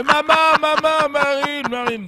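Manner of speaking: high, loud adoring cries of welcome; delegation greeting Marine. Retold or imitated. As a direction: cry out for a long-awaited idol. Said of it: "quand elles l'ont vu arriver".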